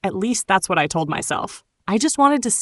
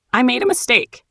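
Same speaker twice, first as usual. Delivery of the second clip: shouted; 5 semitones higher than usual. Retold or imitated. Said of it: "he shouted".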